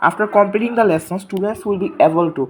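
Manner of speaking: slow, careful textbook reading to the class; reading aloud. Acted. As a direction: read each English word slowly for pupils. Reads lesson objectives aloud. (ধীরে ধীরে পাঠ্যবই পড়া)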